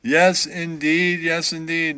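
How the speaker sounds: slow, drawn-out yes indeed; slow catchphrase. Shown as a demonstration. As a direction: stretch out yes indeed as a hometown saying. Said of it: "That's what they say where I'm from".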